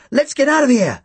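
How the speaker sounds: high-pitched urgent cry; urgent call. A narrator's reading. Narrator urging his partner out of the bank, calling urgently. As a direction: call out to hurry someone away.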